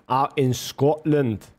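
slow, self-admittedly weak Scottish accent. Shown as a demonstration. Streamer jokes about herders in Scotland, doing a poor Scottish accent. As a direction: stretch it out in a half-hearted Scottish accent. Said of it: "that's my Scottish accent, bro".

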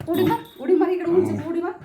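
cheering the dog on. Real, not acted. Owner urging her dog Bruno to jump high, eager.

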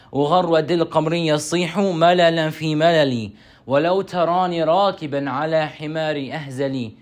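rhythmic chanted recital of a classical poem, often quick; Arabic poem recitation. Acted. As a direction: recite it like a playful classical poem, rolling the sound words.

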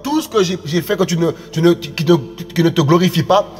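earnest spoken prayer, pleading for family; fervent prayer. Acted. Preacher praying aloud before his congregation for his family, earnest. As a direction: call on the Father, steady and sincere.

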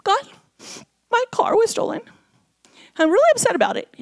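complaining. Retold or imitated. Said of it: "I was complaining to God".

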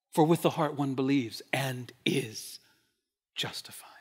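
soft reverent whisper; whispered verse. Acted. Whispered scripture line.

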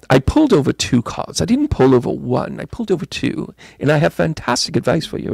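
a light put-on British accent for the tarot reading; reading the cards in a playful mock British accent. A light British accent reading Karen's cards. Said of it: "I'm gonna go British medium here".

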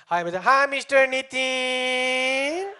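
sugary call-centre hello, stretched slow; pizza call centre greeting. Retold or imitated. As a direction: sell it like an overeager call-centre agent. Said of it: "You call them".

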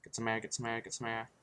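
gasping for air underwater; running out of air. Real, not acted. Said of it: "I'm running out of breath".

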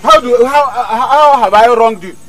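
plead, stung and confused; wounded plea. Acted. Hunter asking Oluchi how he wronged her, high and pleading.

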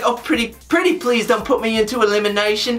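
a light put-on British accent pleading; half-hearted British accent, begging not to be sent in; mock British accent. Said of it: "I don't think C T would have said that in a British accent".

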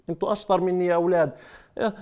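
ordinary delivery

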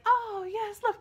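high, swooning melodrama with wailing; Betty Davis. Retold or imitated. Co-host mocking the actress in a melodrama, hammed-up and weepy. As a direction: overact into loud, high sobbing laughter. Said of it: "Betty Davis who's like".

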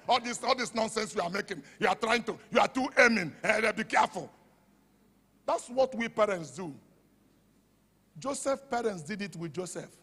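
ordinary talk, nothing marked

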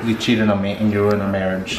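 low, soft fake sobbing; mock crying. Husband fakes tearful whimper accusing partner of ruining marriage. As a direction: whimper like a wronged spouse.

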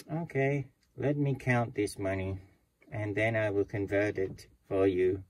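a hint of a stiff robotic teller. Bank teller counts money for the guest, lightly robotic. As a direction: speak like a mild machine, level and even. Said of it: "why are you talking like a robot".

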